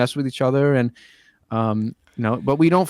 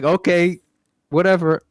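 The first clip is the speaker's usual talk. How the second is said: dismissive; 5 semitones higher than usual. Retold or imitated. Worker shrugging off the boss's order, dismissive. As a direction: brush it off, over it. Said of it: "I was like".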